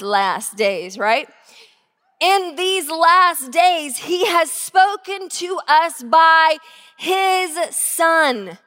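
slow, deliberate scripture reading; slow solemn reading from Hebrews. Acted. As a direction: read the verse with weight. Reads Hebrews aloud.

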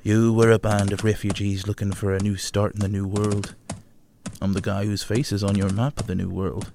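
lightly voiced English adventurer; a hint of a cocky English captain; John Smith voice. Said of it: "I can imagine the posting on ye old Reddit now".

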